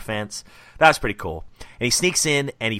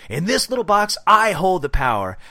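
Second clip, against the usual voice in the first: villain monologue; 4 semitones higher, 4 dB louder than usual. Retold or imitated. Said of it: "He says".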